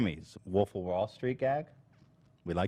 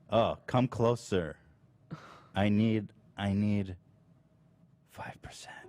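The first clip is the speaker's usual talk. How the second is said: creepy whisper; 3 semitones lower than usual. Acted. Creepy Smaug-style whisper bit.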